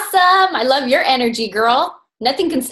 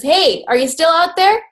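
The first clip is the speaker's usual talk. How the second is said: higher-pitched mock call into the dark; 6 semitones higher than usual. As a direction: call out to someone unseen, lightly acted. Husband calls out into the dark.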